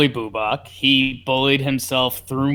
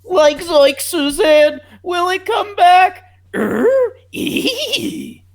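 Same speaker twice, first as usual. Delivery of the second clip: high, loud Boston Kennedy voice; Boston Kennedy accent, hammed-up; 3 dB louder, much slower than usual. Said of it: "Boston, like, Kennedy accent".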